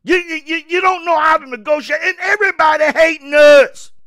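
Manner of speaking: rising to a loud shout at America; angry rant. Real, not acted. Ranting at America about bullying, loud shout. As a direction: shout it out in frustration.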